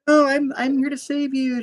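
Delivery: high hammy hero voice; heroic voice. Retold or imitated. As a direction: play the gallant rescuer. Voicing heroic Ben.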